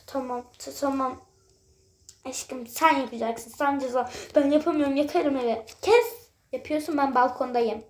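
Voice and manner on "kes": sharp high shout. Real, not acted. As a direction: snap out a loud stop. Bağırarak susturma. (bağırarak kes)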